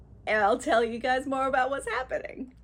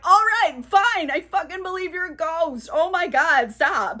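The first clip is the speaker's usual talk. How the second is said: louder and higher, fed up; exasperated yell; 4 semitones higher, 5 dB louder than usual. Retold or imitated. Scrooge finally admits to Marley's ghost, half-yelling in exasperation.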